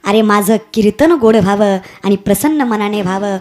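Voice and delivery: low, moved voice of devotion; understated tearful devotion; tearful prayer. Acted. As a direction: speak to God with tears held back. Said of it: "डोळ्यात पाणी आणून म्हणतात".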